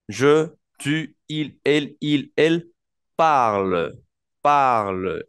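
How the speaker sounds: "parle" con final cerrado y descendente; pronunciación francesa modelo. Shown as a demonstration. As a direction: recalca que "parle" no cambia de sonido. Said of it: "El verbo se pronuncia igual". (el profesor muestra que los pronombres suenan distinto pero "parle" igual)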